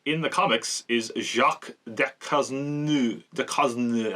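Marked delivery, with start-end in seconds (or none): 1.2-3.2 slow, tentative attempt at "Jacques Ducosne"; unsure French pronunciation. Real, not acted. Reviewer attempting a comic character's French name, "Jacques Ducosne" said unsurely. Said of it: "I don't know how to pronounce it". 3.3-4.1 tentative second go at "Ducosne"; unsure French pronunciation. Real, not acted. Reviewer retrying a French surname, "Ducosne" said unsurely. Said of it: "I don't know how to pronounce it".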